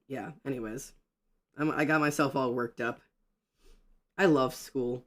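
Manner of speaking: ordinary talk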